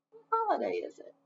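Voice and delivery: high, fast quiz question; teacher prompting the kids; curious question. Shown as a demonstration. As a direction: ask the class eagerly. Teacher asks the children.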